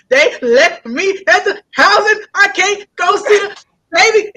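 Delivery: crying retold. Child crying to mama on the phone, sobbing. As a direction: sob it out like a hurt kid. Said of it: "I was just jacked up".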